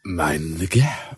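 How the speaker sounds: platform announcement. Retold or imitated.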